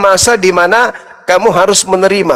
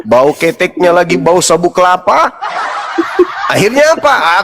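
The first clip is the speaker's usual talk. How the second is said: laughing through the joke. Real, not acted. Comic rant about wife's breath.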